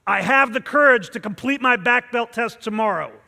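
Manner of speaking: loud, powerful and committed; a vow of courage; intense declaration. Shown as a demonstration. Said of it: "have the courage to push through".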